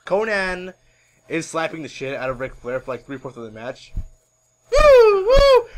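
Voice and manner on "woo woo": high, loud "woo"; wrestler's whoop. Acted. Wrestler in the middle of a match, whooping. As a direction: let out two piercing whoops. Mimics Ric Flair's whoop.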